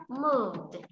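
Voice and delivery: "moved" in one slow syllable, ending in d. Shown as a demonstration. Teacher gives class the next word, "moved" ending in d. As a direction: draw out "moved" and release the final d. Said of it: "sẽ phát âm là d".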